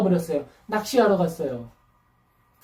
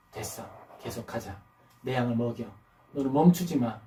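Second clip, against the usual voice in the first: much softer, near-whispered reassurance; hushed; 10 semitones lower, 9 dB quieter than usual. Acted. Jesus hushed to Peter, soft and reassuring. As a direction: say it barely above a breath to Peter.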